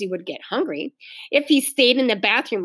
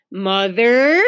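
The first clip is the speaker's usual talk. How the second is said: urgent call; 5 dB louder than usual. Acted. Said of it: "said Ramona urgently".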